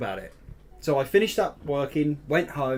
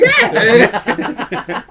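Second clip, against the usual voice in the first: very high, loud hammed-up yelp; mock excited yell; 12 dB louder than usual. Playing along with friends' rescue-dog joke, excited yelp. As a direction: yelp it at the top of the voice.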